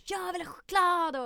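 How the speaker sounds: put-on high, loud whiny child yell; kids screaming. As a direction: shout it like a greedy kid at a fair.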